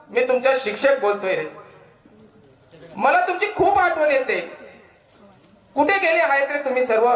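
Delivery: emotional poem recital. Acted. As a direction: recite as the teacher calling to his pupils.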